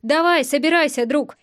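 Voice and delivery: "друг" set apart with pointed emphasis; stress on last word. A narrator's reading. Hero sending his friend off, "друг" pointedly stressed. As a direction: lean pointedly on the final "друг". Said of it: "На последнем слове я сделал ударение".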